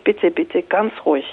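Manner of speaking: soft, hushed calming words; calming, soothing. Retold or imitated. Calming a panicked banker on the train, softly. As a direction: soothe a panicked stranger gently. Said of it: "ich versuchte ganz ruhig zu bleiben".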